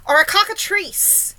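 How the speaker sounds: high, loud, drawn-out yell; yelled alarm. A narrator's reading. Police chief guesses at the monster, yelling. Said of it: "yelled the chief of police".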